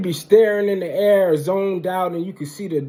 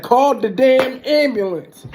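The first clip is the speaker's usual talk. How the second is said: slow, louder, higher demand; retold cussing out; 5 semitones higher, 4 dB louder, slower than usual. Cussing out his family for an ambulance, slow angry demand. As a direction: bark each word at the family. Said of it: "I start cussing them out".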